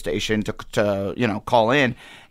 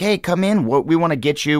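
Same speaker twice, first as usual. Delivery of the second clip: eager invitation; 5 semitones higher than usual. Retold or imitated. Acts radio station's eager job offer.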